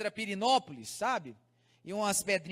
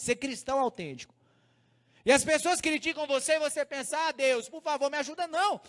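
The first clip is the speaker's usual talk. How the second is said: earnest, higher-pitched sermon delivery; preaching; 7 semitones higher than usual. Real, not acted. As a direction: drive the lesson home to the congregation. Preaches the lesson.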